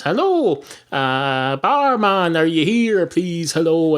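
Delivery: high, sing-song call across an empty bar; calling for the barman. Acted. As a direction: hail the barman, a bit impatient.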